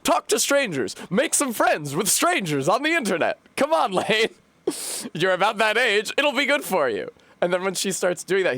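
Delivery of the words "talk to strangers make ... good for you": high, bright nagging mom impression; high-pitched mock mom pushing online friends. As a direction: chirp it like an eager mom. Mom voiced in retold story.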